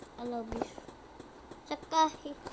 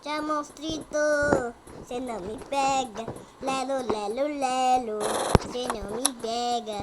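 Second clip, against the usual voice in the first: taunting; 6 dB louder than usual. Real, not acted. Provocando o monstro.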